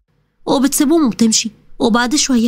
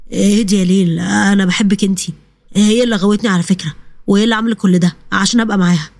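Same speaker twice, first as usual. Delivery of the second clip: a lower male voice, pleading and excusing himself; lightly voiced pleading groom; 5 semitones lower than usual. The cheating groom pleads with Leil, lightly lowered male voice.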